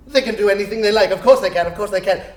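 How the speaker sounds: fast, laughing delight; gleeful chuckle. Acted. Scrooge laughing at the spirits' power, fast. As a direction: tumble out the words, chuckling.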